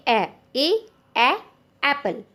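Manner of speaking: ए ए ए एप्पल, slow and clear, each ए separate; phonic sound drill. Shown as a demonstration. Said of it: "हम बच्चों को बताते हैं". (फोनिक sound धीरे-धीरे साफ़ बोलना)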